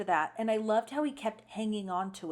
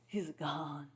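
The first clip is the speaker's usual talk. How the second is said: low, soft mock grief; retold tearful; 5 semitones lower, 10 dB quieter, much slower than usual. Crying girl telling him about the book, mock tearful. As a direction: lightly imitate a mournful, crying girl. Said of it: "she's crying".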